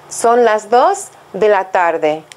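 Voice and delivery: slow, clear model phrase for learners to copy; slow model sentence. Shown as a demonstration. Teacher to students, a slow clear model sentence. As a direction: say it slowly and carefully so students can repeat.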